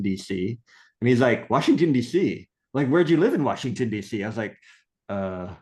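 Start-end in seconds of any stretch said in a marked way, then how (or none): 1.5-4.2 higher-pitched, eager questioning; acted-out keen surprise; surprised echo. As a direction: imitate someone pouncing on a familiar place. Other man echoes answer in surprise.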